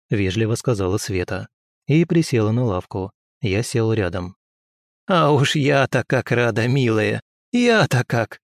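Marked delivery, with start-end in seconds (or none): 5.1-8.4 put-on friendly old woman. Old healer welcomes the girl, friendly. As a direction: greet her like a beaming grandmother. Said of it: "Неожиданно приветливо улыбнулась".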